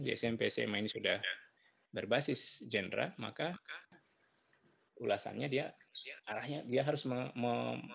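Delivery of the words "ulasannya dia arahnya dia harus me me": choppy cutting-out audio; radio breaking up. Real, not acted. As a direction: voice dropping out on a bad connection. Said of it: "Suaranya putus-putus".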